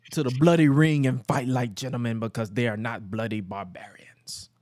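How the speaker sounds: hammed-up English accent in narration; bad English accent. Recapping Regal refusing to fight, bad English accent. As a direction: slide into a mock English accent. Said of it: "butcher the hell out of the English accent".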